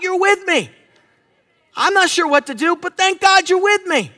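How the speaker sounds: emphatic prayer, lifting high on "with me"; praying out scripture. Shown as a demonstration. Preacher thanking God for being with him, fervent prayer. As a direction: pray with rising conviction, building in pitch. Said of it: "That's a scripture I'm praying out".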